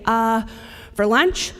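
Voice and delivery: hesitant echo of the question; mild mock of a boy repeating the question; imitating Xavier, stalling. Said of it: "he'll say".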